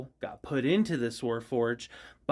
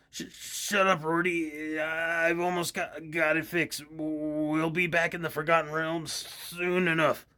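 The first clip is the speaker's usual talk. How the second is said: mad scientist grandpa voice; 3 semitones higher, slower than usual. Acted. Mick shushing Rorty while fixing things, gruff grandpa voice. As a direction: brush him off while tinkering. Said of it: "called Mick and Rorty".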